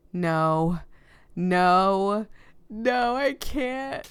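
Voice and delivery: rising, pleading no's, the last one slow and drawn out; distraught denial. Acted. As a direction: read it as the heart breaking. Protagonist hears the terrible news.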